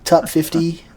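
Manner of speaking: lightly voiced countdown host; badly faked chart-show presenter; Casey Kasem. Shown as a demonstration. Host mimicking a top fifty countdown, bad impression. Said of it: "this is my really bad Casey Kasem voice".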